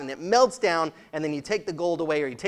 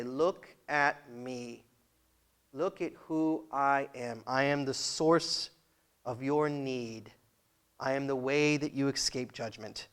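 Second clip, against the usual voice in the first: Jesus voice; 4 semitones lower, 7 dB quieter, slower than usual. Acted. Jesus voiced drawing in fans.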